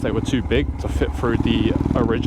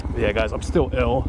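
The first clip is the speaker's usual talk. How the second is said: blocked nose from a cold; nasally voice. Real, not acted. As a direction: talk through a stuffy nose. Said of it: "It's the nasally voice".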